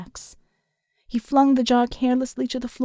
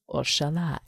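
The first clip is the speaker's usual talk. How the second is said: threatening whisper; 6 semitones lower, 6 dB quieter than usual. A narrator's reading.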